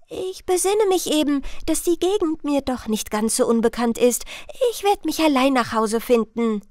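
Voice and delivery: lightly voiced princess making excuses; evasive princess. Princess declining Death's offer to lead her home, evasive.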